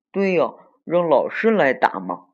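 loud, high eureka moment; bright idea. Acted. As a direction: pounce on the new plan like an eager child. Child hits on a new plan.

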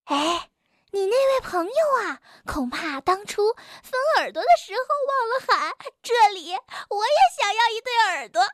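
high, fast conspiratorial murmur; mock the friend behind his back; sly gossip. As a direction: Suqi whispering mean jokes into Bengbeng's ear. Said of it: "叽里咕噜地说".

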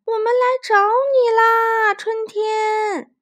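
high, loud slow call; shouting while stomping. Acted. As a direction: yell for spring, stamping. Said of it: "玛塔咚咚咚地跺着脚喊".

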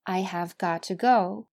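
I have got to go, each word full, "got to" with a crisp t; careful full form. Shown as a demonstration. Teacher lists the forms for students, careful full form. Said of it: "还可以说成".

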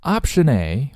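"Option A" run together as "option-nay"; linked words. Shown as a demonstration. Teacher showing learners the link in "Option A". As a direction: carry the n of "Option" into "A". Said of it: "我们可以连读".

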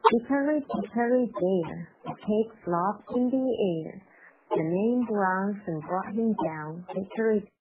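nursery rhyme at a moderate, moving pace. Shown as a demonstration. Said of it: "速度呢稍微的快一点".

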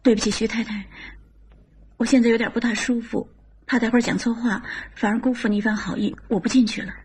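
lightly choked, forcing a smile; a hint of held-back tears. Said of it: "哽着嗓子强笑道".

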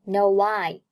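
"no I" joined with a w glide; linked pronunciation. Shown as a demonstration. Teacher demonstrates 连读, "no I" linked by w. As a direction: slide from "no" into "I" as "no-wai". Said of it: "No和I连在一起".

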